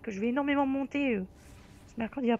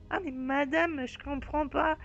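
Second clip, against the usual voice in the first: mock-aggrieved pupil pleading, slightly raised voice; protesting pupil; 2 semitones higher, slower than usual. Pupil protesting a bad mark to the teacher, mock-aggrieved. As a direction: play a pupil who swears they worked, drawing out the claim. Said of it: "Le, le style de".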